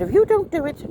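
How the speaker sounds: sharp high threat, mother's warning; a daughter imitating her mother's threat loudly; retold threat. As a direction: throw the ultimatum out loud and high. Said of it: "But she said".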